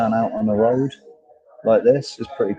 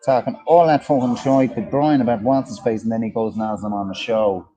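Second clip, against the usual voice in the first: put-on southern Irish accent. Shown as a demonstration. Host moaning about a radio presenter, Irish accent. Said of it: "You like Richie Allen's accent?".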